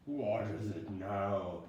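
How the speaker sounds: weary groan. Acted. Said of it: "groaned wearily".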